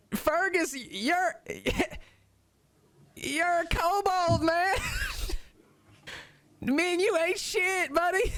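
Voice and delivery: high kobold voice through belly laughs; high squeaky kobold, cracking up; laughing kobold. Acted. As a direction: laugh at your friend's crazy plan. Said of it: "Dom starts laughing".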